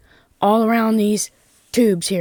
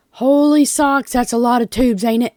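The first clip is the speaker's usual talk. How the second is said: amazed; 4 semitones higher than usual. Real, not acted. Amazed at her many tubes.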